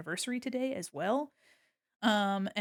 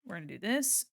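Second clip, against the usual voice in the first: ordinary talk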